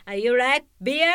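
loud, high katakana English question; emphatic beginner English with a Japanese accent; broken Japanese-accented English. Acted. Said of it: "出川英語".

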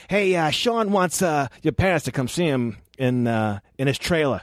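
lightly voiced older Italian assistant; gruff assistant. Assistant Chet summoning the parents, lightly voiced. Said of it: "older Italian bulldog".

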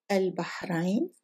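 Al Bahrain said slowly and clearly; slow example. Shown as a demonstration. Teacher models example word slowly. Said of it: "here are some examples".

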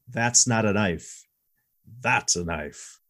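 a mild mock Australian bushman voice; terrible Aussie accent. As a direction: lightly imitate Paul Hogan's Australian accent. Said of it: "I almost slipped into a terrible Aussie accent".

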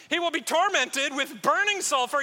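hammed-up hellfire warning to the neighbor; dramatic doom reading. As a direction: boom it out like a fire-and-brimstone preacher. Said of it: "a little gravel in the voice".

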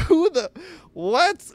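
very high, loud squawk of disbelief; retold stunned bewilderment, voice shooting up; utterly confused. Manager seeing him board the boat, utterly confused. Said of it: "they're just so confused".

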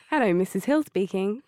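prim posh phone greeting; telephone voice. Shown as a demonstration. Friend asks for her telephone voice, prim posh greeting. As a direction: answer like a polite receptionist. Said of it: "What was that?".

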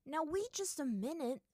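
loud, high indignant shout. A narrator's reading. Seething avatar stops the monkey, shouting. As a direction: raise the voice to halt someone. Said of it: "he shouted".

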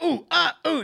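high, hammed-up old comic noises; hacky Catskills comic. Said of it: "and he's like".

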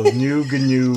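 slow "new gnu", plain new then a faint g in "gnu"; trying out gnu. Shown as a demonstration. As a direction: carefully test "new" against "gnu". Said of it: "I thought the G was silent".

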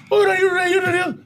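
high yelled call across the stands; mock fan shout. Fans in the stands shout down at Iranildo, high calling yell. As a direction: holler his name like a fan in the stands.

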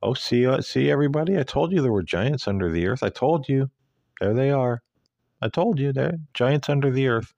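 high, sing-song mock of a serene woman; high mocking falsetto of a calm woman. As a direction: lampoon her eerie calm. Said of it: "would you stand there very calmly going".

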